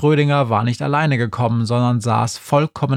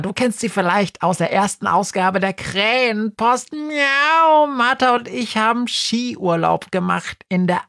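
high, fast-talking meowing cat; chattering cat voice; 9 semitones higher than usual. Acted. Schrödinger the cat pesters Günther, high and chatty. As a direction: babble excitedly like a scatterbrained cat.

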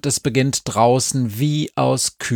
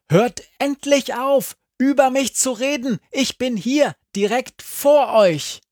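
hoch und aufgebracht; empört aufgesprungen; wütend; 13 semitones higher than usual. A narrator's reading. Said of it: "Befana ist aufgesprungen". (hoch und empört)

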